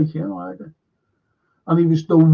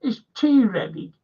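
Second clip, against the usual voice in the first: higher-pitched send-up of a TV husband; mock man of the house; 6 semitones higher than usual. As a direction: parody a Liverpool actor asking for dinner. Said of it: "man of the house".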